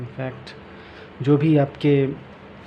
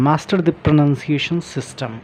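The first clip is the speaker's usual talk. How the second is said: slow, careful reading from the book; reading aloud; much slower than usual. Shown as a demonstration. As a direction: read each phrase out slowly for learners. Reading heading aloud slowly. (किताब से धीरे-धीरे पढ़ना)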